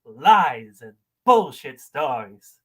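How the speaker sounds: emphatic lines broken by long pauses; dramatic monologue. Acted. Caller auditioning with a monologue, dramatic and emphatic.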